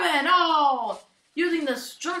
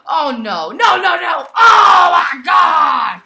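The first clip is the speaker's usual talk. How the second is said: real alarm, voice jumping up and loud; excited shouting; 2 semitones higher, 13 dB louder than usual. Real, not acted. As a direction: shout as the figure crashes through the tables. Table crash in toy match.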